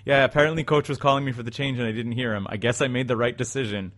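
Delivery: put-on broken English, light Russian accent; a hint of a Russian hockey player. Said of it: "like, kind of broken, like, in Russian accent".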